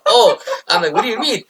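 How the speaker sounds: high, incredulous reaction; startled realization. Retold or imitated. Recruit learning he's been messed with, taken aback. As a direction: pitch leaps up as it dawns on you.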